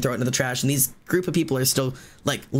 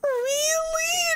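very high, drawn-out mock crying squeak; overwhelmed, squealing whimper; tearful disbelief. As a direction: imitate a girl bursting into happy tears. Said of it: "she immediately is crying".

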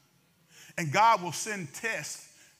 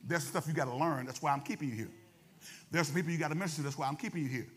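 low, softer voice of God; quiet, low divine refusal; God's reply; 5 semitones lower, 4 dB quieter, faster than usual. Acted. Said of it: "and God said".

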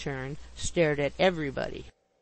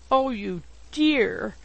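slow, higher-pitched, drawn-out endearment; adoring gush; 4 semitones higher, slower than usual. A narrator's reading. Widow believes she has been proposed to, adoring gush. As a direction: gush fondly, stretching the words. Bardell gushes over supposed proposal.

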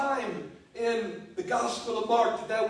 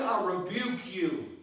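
quiet rebuke; 5 semitones lower, 4 dB quieter than usual. Acted. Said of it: "I can just see this in my mind's eye".

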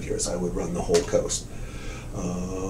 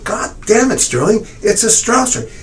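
high, loud exasperated insisting; angry shout; 12 semitones higher, 6 dB louder than usual. Retold or imitated. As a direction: shout him down in frustration. Retold argument over the painting.

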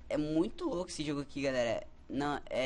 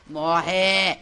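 loud yelling while firing; furious shout; 2 semitones higher, 15 dB louder, much slower than usual. Real, not acted. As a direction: scream at the monster to die. Shooting monsters in game.

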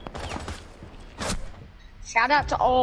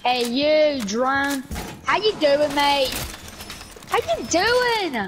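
lightly put-on Aussie drawl; Australian accent; 3 semitones higher, slower than usual. Greeting an enemy drone, light Australian accent. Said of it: "stop doing the accent".

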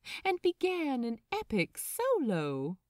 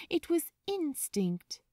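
whispered; 6 semitones higher than usual. A narrator's reading. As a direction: let it out as a secret. Narrator stresses a revelation.

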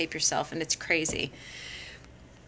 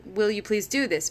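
asking request. Shown as a demonstration. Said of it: "you're saying".

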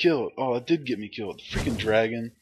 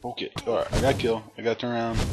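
normal talking voice

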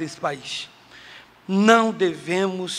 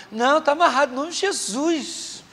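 a higher, stubborn churchy denial; high mock denial; 7 semitones higher than usual. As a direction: her voice pitched up, dragging out Jesus. Woman denying problem to pastor.

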